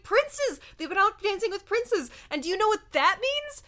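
high, loud imitated exclamation; mock villain outrage. Villain confiding in her monkey, hammed-up outrage. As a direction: blurt it out like a scandalized cartoon villain.

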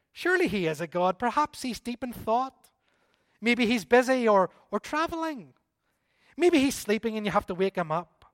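mocking taunt. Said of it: "Elijah began to taunt them".

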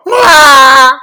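loud high bleating goat. Retold or imitated. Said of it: "My goat impression".

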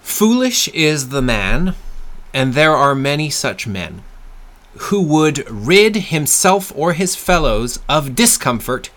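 slow, deliberate recitation with pauses; measured quote reading. Acted. Guest reads MacDonald quote to listeners, slow measured reading. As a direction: read it out phrase by phrase, weighing each.

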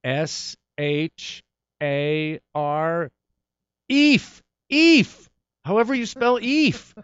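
mock drunken aunt spelling aloud, high and loud; Aunt Lee spelling. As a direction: imitate a tipsy aunt shrieking out the letters. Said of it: "my Aunt Lee trying to spell the name and going".

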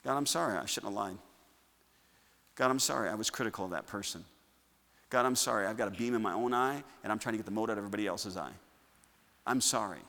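soft, quiet, sincere prayer; sincere confession. Shown as a demonstration. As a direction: confess each sin gently to God. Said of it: "You confess your sins specifically".

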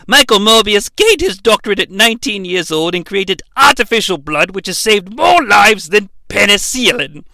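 lightly voiced formal award speech; Doctor Loomis voice. Loomis presenting the award, lightly voiced formal speech. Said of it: "may become Doctor Loomis".

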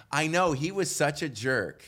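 mock agreement through laughter; a laughing bystander piling on; laughing gossip. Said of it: "row in front of him goes".

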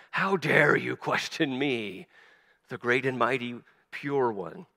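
slow, haughty mock outrage; pompous shrill tyrant. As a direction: lord it over them, slowly. Mocking self-righteous outrage.

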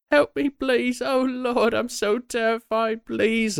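very high falsetto damsel in distress; mock-terrified falsetto cry for help; screaming woman. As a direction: plead for help in a put-on, high-pitched woman's wail. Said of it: "like, screaming".

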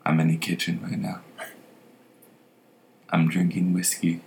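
soft, unhurried mock ASMR murmur. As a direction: play at a hushed ASMR segment. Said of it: "like, an A S M R".

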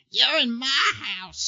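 high, loud, drawn-out holler; slow high-pitched mock yell; ranting homeless man. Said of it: "homeless guy outside knocking on the phone booth going".

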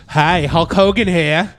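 slow laughing Hulk Hogan impression; drawn-out promo-style Hogan intro. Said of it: "promotions for this upcoming movie. Like".

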